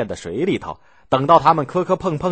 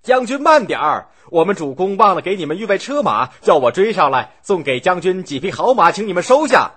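high, loud call across the water; 6 semitones higher, 3 dB louder than usual. A narrator's reading. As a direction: shout after the boat to make them stop. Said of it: "大声嚷道".

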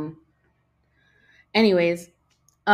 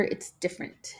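whispered; 6 dB quieter than usual. Real, not acted. Aside under breath.

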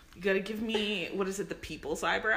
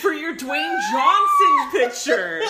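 laughing; 9 semitones higher, 12 dB louder, slower than usual. Real, not acted. Laughing while asking for photo.

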